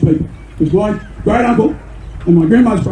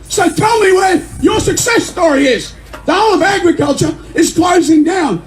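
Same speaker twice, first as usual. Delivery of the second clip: rising indignant shout; 6 semitones higher than usual. Real, not acted. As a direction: hammer the question at the crowd. Speech climax, demanding answer.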